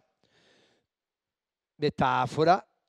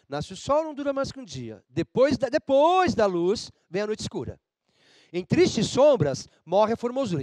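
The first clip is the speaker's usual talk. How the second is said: slow, stretched recital leading the class; choral recitation; 3 semitones higher than usual. Shown as a demonstration. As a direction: lead the class through the poem, slow and drawn out. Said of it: "Vamos junto?". (recitação lenta em coro com a turma)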